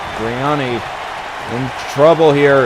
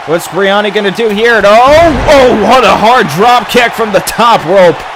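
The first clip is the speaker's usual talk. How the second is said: wrestling commentator. Real, not acted. Calls the match play-by-play.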